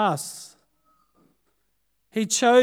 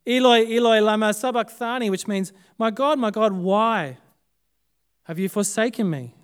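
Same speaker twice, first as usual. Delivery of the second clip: a louder anguished call that eases off; a moderately raised voice calling out to God; loud cry; 3 semitones higher, 3 dB louder than usual. Retold or imitated. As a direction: cry the first words out, then let it settle. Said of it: "cried out in a loud voice".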